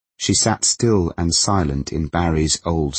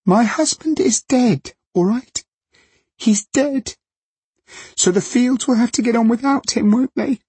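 hysterical screech. A narrator's reading. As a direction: scream it through tears. Widow screaming at journalist.

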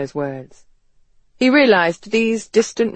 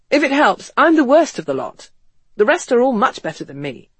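higher-pitched, earnest character voice; West, frank and persuasive; 4 semitones higher than usual. Acted. West urging Ethan to get to know his family, frank. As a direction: win him over, pitch lifted throughout.

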